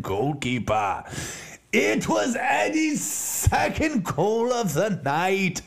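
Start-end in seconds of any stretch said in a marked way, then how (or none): 1.7-5.6 frantic mock sports commentary. Hyped football commentary.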